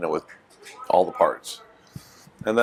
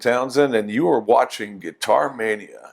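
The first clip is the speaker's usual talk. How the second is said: radio voice; 2 semitones higher than usual. Pretend. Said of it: "this is my best radio voice".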